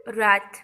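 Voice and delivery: रात said with the w silent, starting on r; teacher models रात for the class, r sound first. Shown as a demonstration. रात बिना डब्ल्यू के. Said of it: "अब इसका डब्ल्यू नहीं पढ़ेंगे हम".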